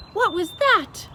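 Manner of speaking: high, loud startled giant; BFG startled. A narrator's reading. Giant hits his head, asks startled and loud. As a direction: yelp the question in surprise. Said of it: "he cried".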